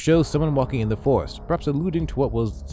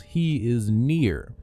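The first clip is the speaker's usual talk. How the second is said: drawn-out, eerie whisper of a warning; slow, creepy reveal of the hidden words; stretched out like a horror tape; ominous slow reading; much slower than usual. Acted. Reading the cryptic hidden message.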